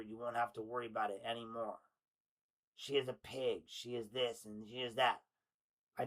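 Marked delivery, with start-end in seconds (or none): none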